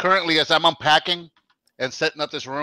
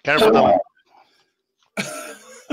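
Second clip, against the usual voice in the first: whispering; 2 semitones lower, slower than usual. Real, not acted. Unvoiced whisper warning about pepper.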